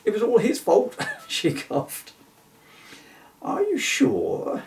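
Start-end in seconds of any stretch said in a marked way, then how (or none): 0.1-0.9 excited squeal. Acted. Character's excited crash report. 3.4-4.6 slow, high, doubtful query; lightly voiced unicorn asking gently; questioning Bill. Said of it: "inquired Bill".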